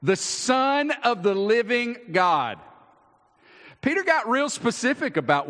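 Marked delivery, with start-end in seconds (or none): 0.0-2.6 solemn declaration. Retold or imitated. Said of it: "Matthew remembers Peter saying".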